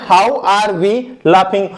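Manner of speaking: slow dictation. Shown as a demonstration. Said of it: "हम कैसे हंस रहे हैं?".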